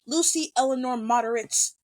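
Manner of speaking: full of sincerity. Retold or imitated. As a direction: quote it as his earnest recognition of her. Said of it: "full of sincerity".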